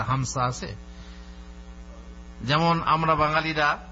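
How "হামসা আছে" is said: হামসা said with s for z, in a lightly voiced question; mock-asking with হামসা pronounced with s; a mild imitation of a Keralite asking for হামসা; imitating a colleague. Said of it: "এরকম এসে জিজ্ঞেস করে".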